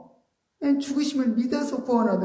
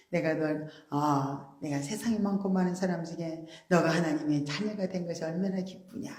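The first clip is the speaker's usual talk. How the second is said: softer, tender inner voice of God speaking; soft voice of the Lord; 4 dB quieter than usual. Acted. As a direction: speak gently as the Lord within. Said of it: "우리 주님이 우리 안에서 그런 말씀 해주는 거예요". (부드럽게 속삭이는 주님의 음성)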